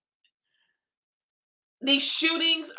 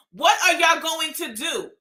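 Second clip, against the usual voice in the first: real shout; 4 semitones higher than usual. Real, not acted. Shouting at leaders to protect the children, real anger. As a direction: shout the question at them, fed up. Ranting at politicians over shootings.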